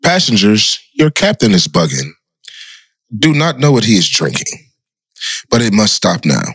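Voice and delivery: mock captain on the intercom; deadpan cockpit announcement to passengers; pilot announcement.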